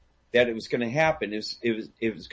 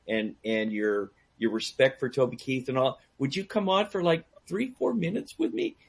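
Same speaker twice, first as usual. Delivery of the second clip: retold begging; 2 semitones higher than usual. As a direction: ask a favour with mild, playful begging. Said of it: "I'm kinda begging him".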